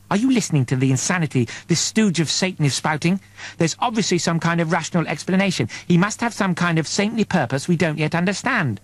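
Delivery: lightly voiced devout woman, scandalized; pious woman indignant. Peck's indignant pious protest.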